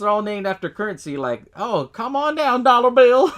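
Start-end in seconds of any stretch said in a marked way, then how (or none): 1.6-3.3 high, slow sing-song call; mock granny calling; old lady calling cat. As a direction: coax the cat like a cranky old woman. Old lady calls her cat.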